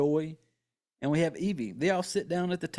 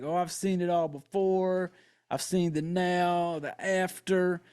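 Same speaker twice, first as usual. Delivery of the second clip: weird cryptic talk; slower than usual. Retold or imitated. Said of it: "this weird talking shit like".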